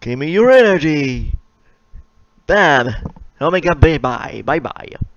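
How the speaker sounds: hammed-up anime hero calling for energy; acting out Goku. Retelling Goku's spirit bomb against Omega, hammed-up hero shout.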